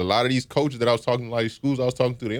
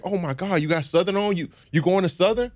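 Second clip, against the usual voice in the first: high, gushing schoolgirl voice, much higher; excited girl; 9 semitones higher than usual. Retold or imitated. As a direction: imitate a thrilled girl squealing with joy. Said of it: "she was just so excited".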